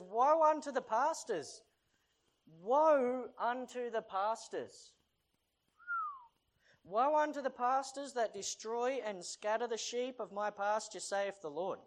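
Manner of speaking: slow, weighty reading of the prophet; solemn scripture reading. Acted. Preacher reading God's warning to pastors, slow and solemn. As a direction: intone it like a warning.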